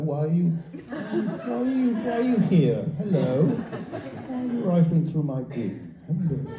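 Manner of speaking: slow, drawn-out accusing question; suspicious accusing. Pretend. Suspicious resident questioning a man at his bin, slow and accusing. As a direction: grill the stranger like he's up to something. Suspicious neighbour confronting stranger.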